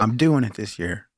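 lightly mocking fitness newbie. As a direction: gently send up the New Year dieter. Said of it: "you're saying it in the mocking voice".

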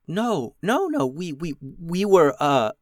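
tripping over her words in a panic; stuttering. Acted. Beatrice denies it to the goblin, stuttering. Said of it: "still stuttering".

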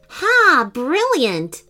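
high, loud burst of approval; delighted. Acted. Abraham praising his friend's solution, delighted. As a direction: pounce on the clever idea.

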